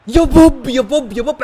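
high loud cheer; excited shout. Real, not acted. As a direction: shout the name high in joy. Cheering a goal. (هتاف عالٍ مرتفع بفرح)

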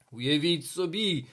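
loud, drawn-out agitation; flustered, overwrought teacher; panicking. A narrator's reading. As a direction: blurt it loudly, stretching the words. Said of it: "запаникував пан Тельмайер".

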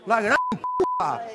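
2 "La gran puta" in a very high, slow squeal; 3 squeak out "La gran puta" in disbelief, slowly; 1 exasperated squeal. Real, not acted. 4 host exasperated at guest, says "La gran puta" very high and slow.

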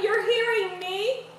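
talking while crunching food; crunching chips. Real, not acted. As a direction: mouth full, chewing between words. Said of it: "you probably hear my crunching".

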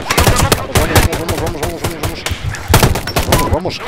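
high, rapid-fire urging; urgent cheering on. Real, not acted. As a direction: egg them on in a high, excited chant. Urging on during firefight.

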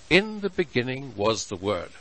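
"In" leaned on, the rest of "In the beginning was the Word." falling away; stress on in. Shown as a demonstration. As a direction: press on "In" before "the beginning". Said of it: "the emphasis there falls on the word "in".

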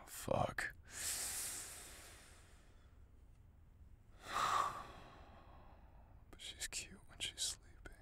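soft whisper so as not to wake her. Acted. Partner whispering fondly beside the sleeping girl. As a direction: hush it over a sleeper.

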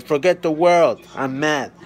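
playfully loud, put-on tantrum; hammed-up grumpy outburst; mock anger as baby. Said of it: "She said".

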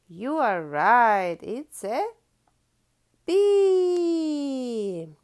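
loud, rising, delighted praise; big excited cheer. Acted. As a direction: celebrate the right answer. Praising child's answer.

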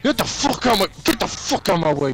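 fired-up shouting; passionate yelling. Real, not acted. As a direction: yell like you mean it. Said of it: "Malik mad passionate".

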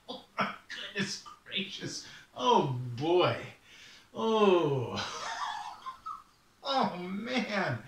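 breathless cackling raven; can't stop laughing; laughing fit. Acted. Raven cracking up.

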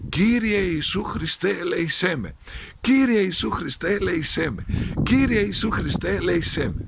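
elder teaching the proper prayer, steady and measured; the correct prayer. Shown as a demonstration. Elder teaching the shepherd the correct prayer, measured. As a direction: recite the right words like a lesson. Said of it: "Η σωστή προσευχή που θα λες είναι".

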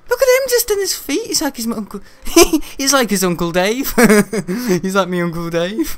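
high, giggly outburst; amused laughing. Real, not acted. Laughing at a game figure who's like Uncle Dave, amused. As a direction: laugh through the words.

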